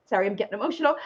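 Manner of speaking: briefly moved apology; real touch of emotion, held back; getting emotional. Real, not acted. Host apologizing to viewers mid-explanation, getting emotional.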